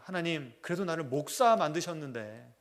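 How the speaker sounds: a pastor begging God for his mother, loud and desperate; desperate prayer. Retold or imitated. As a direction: stake your life on this plea, pushing harder as you go. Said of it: "목숨을 걸고 기도했답니다".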